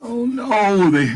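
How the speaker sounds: sudden high oh no; surprised. Real, not acted. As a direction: gasp it out in surprise. Reader reacts to picture.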